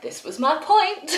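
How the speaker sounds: high-pitched plea breaking into laughter; exasperated protest. Retold or imitated. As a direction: make your point high, laughing it off. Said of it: "And I was like".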